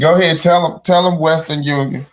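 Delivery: loud call of encouragement; shouted go-ahead from the pew. Real, not acted. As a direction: egg the speaker on like in church. Cheering on the TV speaker.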